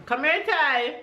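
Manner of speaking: calling out. Real, not acted. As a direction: call him over, high and coaxing. Mother calling sad child.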